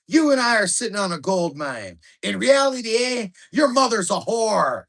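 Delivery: loud, high rowdy Canadian guy telling a dirty joke, eh; thick Canadian accent. Retold or imitated. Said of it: "in thick Canadian accents".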